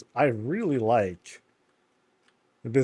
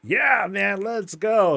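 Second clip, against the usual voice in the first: higher, louder eager reply; pumped for the ride; eager rider; 9 semitones higher, 4 dB louder, slower than usual. Pretend. Riders answering the gnome, higher and eager. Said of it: "the gnome is like".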